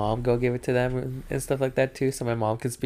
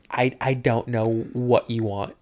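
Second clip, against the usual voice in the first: slow, mildly exasperated reply; retold frustration; slower than usual. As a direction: spell it out slowly with a touch of anger. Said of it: "I was so mad all the time".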